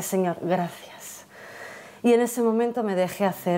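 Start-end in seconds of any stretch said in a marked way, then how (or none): 0.0-1.2 slow, soft, breath-held thank you; hushed thanks. Real, not acted. Mother hearing her baby's heartbeat, hushed slow relief.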